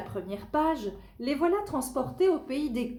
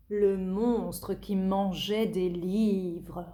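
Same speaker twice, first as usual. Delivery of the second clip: slow title reading; 2 semitones lower, much slower than usual. Acted. Announcing the story title.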